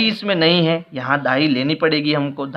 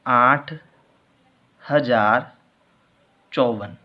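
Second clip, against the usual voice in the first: slow dictation; 2 semitones lower, much slower than usual. Shown as a demonstration. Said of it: "अब शब्दों में लिखेंगे".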